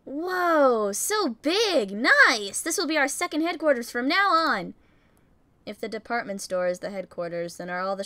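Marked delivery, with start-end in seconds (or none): 0.0-4.7 put-on eager young hero, wowed; excited character voice. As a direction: gush with delight. Voicing excited character in story.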